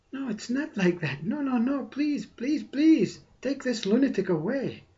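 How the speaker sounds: high-pitched, hammed-up pleading; pleading ego mind. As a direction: beg in mock panic to be rid of someone. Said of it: "says mind, ego mind, social mind".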